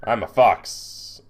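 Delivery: slow, drawn-out fox voice; slowly voiced character test. Shown as a demonstration. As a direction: stretch it out, trying on a fox. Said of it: "doing a test on my voice".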